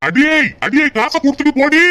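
calling after her. Acted. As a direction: call out in protest as she makes off. Calling after wife who took money.

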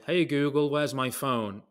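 calling out to the phone; shouting. Retold or imitated. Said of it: "So I'm shouting".

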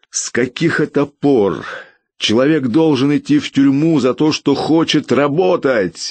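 indignant outburst, barely held in; exploding in anger. A narrator's reading. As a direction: blow up at the official, each word pushed hard. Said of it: "взорвался я".

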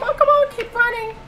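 high, loud frantic urging; will yourself onward; real frantic urging; urgent urging. Real, not acted. Fleeing the enemy.

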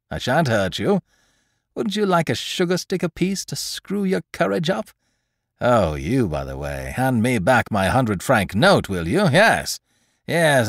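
a hint of a mocking gentleman thief; lightly voiced thief, pleased with himself; lightly voiced Lupin. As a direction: speak with amused confidence.

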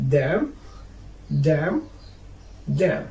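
"dam" ending on m, no n sound; teacher's careful "dam", final N left silent. Shown as a demonstration. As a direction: model "dam" closed on the m. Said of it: "you cannot pronounce it after M".

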